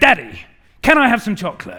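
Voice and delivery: acted-out, cross, demanding little girl, high and very loud. Retelling a daughter stamping her feet for chocolate: imitating an angry demanding child. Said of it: "a small thundercloud has entered the room".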